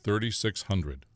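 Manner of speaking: slow, careful number read-out; nice and slow. Real, not acted. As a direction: dictate it slowly so the caller can write it. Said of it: "I'll say it nice and slow".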